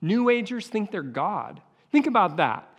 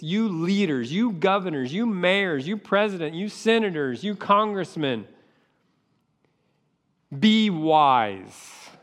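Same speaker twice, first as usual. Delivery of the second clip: preached warning. Shown as a demonstration. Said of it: "this is to all you world leaders".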